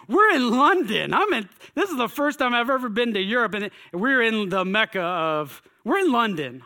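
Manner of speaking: gushing over finally being in London; excited. Real, not acted. Telling the crowd about his first day in London, excited. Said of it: "So I'm excited".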